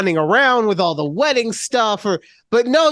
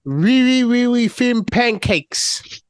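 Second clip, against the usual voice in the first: bad French accent; 4 semitones higher, slower than usual. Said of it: "That was a terrible impression".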